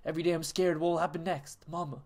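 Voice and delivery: pleading, tearful plea to mama; hammed-up sobbing plea; mock tearful letter. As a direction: read the letter like a crying child begging. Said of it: "Yo, you sold that".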